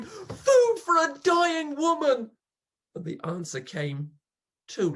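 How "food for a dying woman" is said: high, loud desperate shout; frantic husband shouting for food at the gate; crying out. Acted. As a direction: yell it at the workhouse gate.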